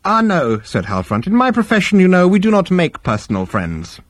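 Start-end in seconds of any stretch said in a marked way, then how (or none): 0.0-0.6 very high-pitched, airy reply; unruffled psychiatrist. Acted. Psychiatrist brushing off the Vogon's complaint, unruffled. Psychiatrist denies personal friendship. 1.3-4.0 very high-pitched, airy reply; unruffled psychiatrist. Acted. Psychiatrist brushing off the Vogon's complaint, unruffled. Psychiatrist explains his profession.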